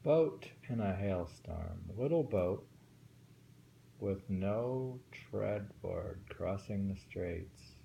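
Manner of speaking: slow, careful haiku reading; poem reading. Acted. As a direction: take the lines slowly, warn on "Take care". Reads a haiku aloud.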